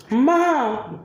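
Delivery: put-on high, whiny child's wail, laughing; imitating her son's crying wail; laughing while mimicking a heartbroken boy; mock crying. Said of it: "crying and upset".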